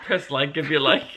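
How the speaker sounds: mock the sing-out of "if you like" through a laugh; teasing mimicry. Partner teasing her fumbled sign-off, laughing mimicry of "Press like if you like". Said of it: "Why did I say it like that".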